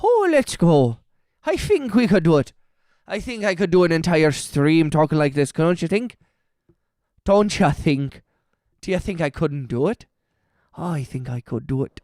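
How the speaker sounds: put-on Irish lilt, playful; Irish accent. Streamer to chat, testing a whole-stream Irish accent voice. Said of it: "in a Irish accent".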